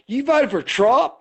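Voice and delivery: high, mock-shocked "you voted for Trump?"; retold disbelief. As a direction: mimic the stranger's shocked disbelief. Bar guy shocked at vote.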